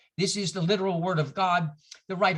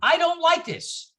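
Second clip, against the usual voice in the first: higher, louder, slow mock professor verdict; slow, higher mock disapproval from the lectern; disapproving professor; 8 semitones higher, 4 dB louder, slower than usual. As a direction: drawl it out like a sniffy professor grading. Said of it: "it's like a professor saying".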